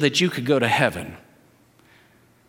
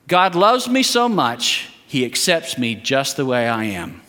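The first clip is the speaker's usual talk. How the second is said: statement for repeating; 5 semitones lower than usual. Shown as a demonstration. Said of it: "I want you to say it right back".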